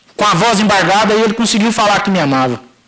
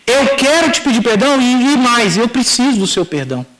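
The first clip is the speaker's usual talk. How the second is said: insistent apology; 3 semitones higher than usual. Retold or imitated. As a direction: press the apology more firmly. Repeats apology, insisting to father.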